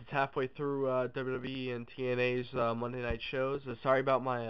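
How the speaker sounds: stuffy blocked nose; nasal from a cold. Real, not acted. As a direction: talk through a head cold. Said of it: "nasally sounding voice".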